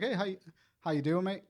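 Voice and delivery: a touch of British mate-speak; British-tinged accent. Retold or imitated. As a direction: imitate a hint of Hispanic-British accent. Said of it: "like, a British accent".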